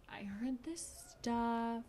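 slow, soft, trying to sound casual; imitating someone acting offhand; feigned nonchalance. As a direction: play it casual, drawing the words out. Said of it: "trying to be nonchalant about it".

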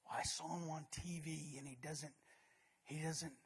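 low, soft smug critic voice; mock know-it-all. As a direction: play a smug armchair critic. Critic mocked by preacher.

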